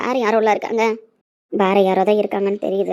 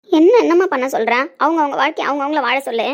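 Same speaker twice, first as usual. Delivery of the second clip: louder, higher retort; exasperated; 3 semitones higher, 4 dB louder than usual. Acted. Daughter pressed to marry, retorting in raised exasperation. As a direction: burst out in exasperation.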